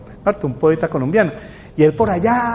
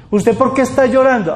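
pressing questioner; 6 semitones higher than usual. Retold or imitated. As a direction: demand an answer like a worried parent. Parent questions a depressed person.

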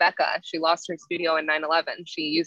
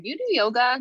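blunt stranger; 7 semitones higher than usual. Retold or imitated. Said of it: "Like that".

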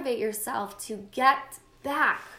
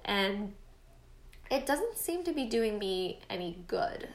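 whisper; 5 dB quieter than usual. Real, not acted. Confessional aside, voice drops.

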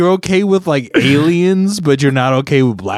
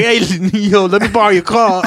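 tag; 7 semitones higher than usual. Acted. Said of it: "one of those gray aliens".

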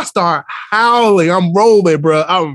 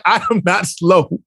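indignant fifth grader; 3 semitones higher than usual. Retold or imitated. Student answers teacher's light-up shoe tease, imitated indignation. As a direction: spell it out like an insulted child. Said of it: "she got mad attitude".

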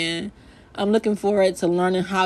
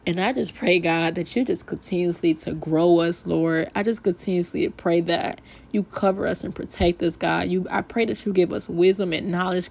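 heartfelt prayer. Acted. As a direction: pray over the listeners. Leads a closing prayer.

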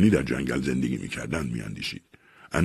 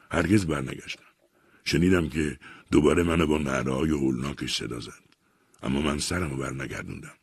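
remorseful confession. Acted. Guilty confession of abandoning brother.

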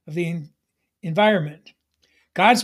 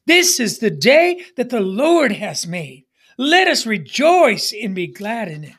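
firm, convinced declaration of the verse; like you mean it. Shown as a demonstration. Preacher showing the congregation how to mean the verse, convinced. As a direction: proclaim it with real conviction. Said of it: "Say it like you mean it".

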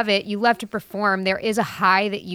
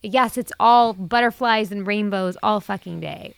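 sarcastic, pissed off. Acted. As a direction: agree with biting, drawn-out irony. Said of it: "let's get Jamie pissed".

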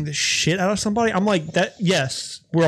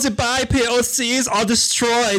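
mock villain, pitched up; Bond villain; 7 semitones higher than usual. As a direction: announce the evil plan grandly. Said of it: "continues villain role".

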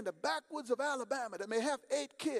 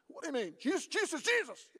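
startled exclamation; 5 semitones higher than usual. Acted. Woman reacting in disbelief to the preacher, startled. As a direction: repeat the name in disbelief, climbing.

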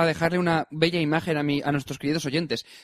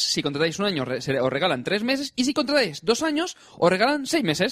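ad read. Acted. Sponsor ad read.

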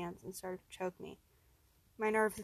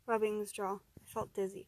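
ordinary delivery

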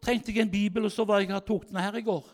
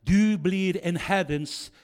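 slow solemn prophecy; slower than usual. Retold or imitated. Preacher prophesies over kneeling youth.

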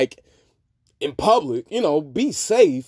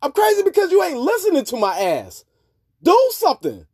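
a higher-pitched mock defiant comeback; mock defiant woman; 10 semitones higher than usual. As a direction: play a woman owning her craziness, much higher. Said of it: "Just sit there and be like".

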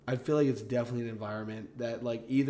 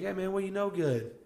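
friendly greeting; 8 semitones higher than usual. Retold or imitated. Voices a friendly Southern greeting back.

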